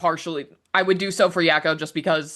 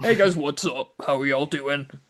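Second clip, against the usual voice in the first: put-on exaggerated super-deep voice, much lower; 4 semitones lower than usual. Showing the voice the speaker only makes for a joke, joke super-deep voice. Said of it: "never made my voice super deep unless".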